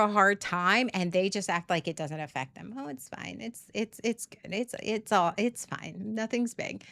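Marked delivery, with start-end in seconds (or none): 2.8-6.8 mock breezy denial. Mocking partner who pretends fine.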